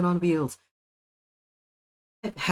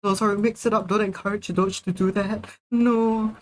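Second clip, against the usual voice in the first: excited scolding; 6 semitones higher than usual. Real, not acted. Scolding chat, laughing.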